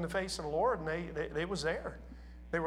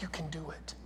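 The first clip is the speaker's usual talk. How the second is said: softer, voiced half-whisper; soft encouragement; 3 semitones lower, 8 dB quieter than usual. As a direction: ease it out gently, almost a whisper.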